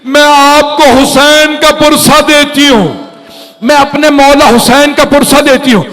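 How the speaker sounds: put-on high, crying old woman's condolence; old woman weeping. High keening condolence. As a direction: blind old woman offers condolence to Zainab, high and tearful. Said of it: "بلند آواز سے رونے لگی".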